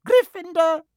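high, loud shout of the house name; hat shouting. A narrator's reading. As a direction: announce it to the whole hall. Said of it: "When it finally shouted".

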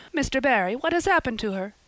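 put-on breathless with fear for the child; gasped in fear. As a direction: Marilla cries out to Mister Barry. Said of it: "she gasped".

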